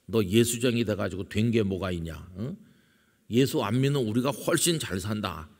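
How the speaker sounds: lightly acted family taunt; scornful relatives. Relatives taunting the lone believer at holidays, mildly scornful. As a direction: imitate a relative needling the believer. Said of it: "다 한마디씩 하는 거예요".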